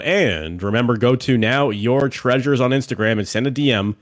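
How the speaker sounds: lively, polished sponsor read. Acted. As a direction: pitch the sponsor like a podcast host. Reads the podcast sponsor ad.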